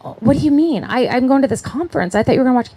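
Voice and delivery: upset wife finds her husband is working all weekend, startled and dismayed; dismayed surprise. Retold or imitated. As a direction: retell the shock of being let down. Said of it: "I'm like".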